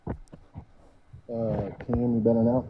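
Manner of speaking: muffled, like through a wall; muffled mic. Real, not acted. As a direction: voice dulled by a bad mic. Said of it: "it's actually really hard to hear you".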